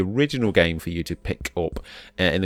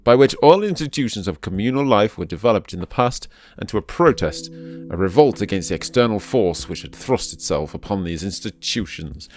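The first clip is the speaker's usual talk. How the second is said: reading aloud. Acted. Reads old book passage aloud.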